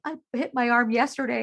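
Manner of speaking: lightly imitated whiny kid; mock crying child. Mom imitating her kids' late complaint, lightly whiny. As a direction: raise the pitch a little, like a complaining child. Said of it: "then they're crying about".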